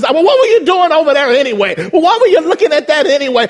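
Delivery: chastising. Retold or imitated. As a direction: nag the sinner. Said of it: "chastise us".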